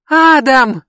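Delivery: high, loud shriek. Acted. Brandi sees Adam and shrieks, high loud shriek. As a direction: shriek his name in shock. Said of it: "завизжала Бренди".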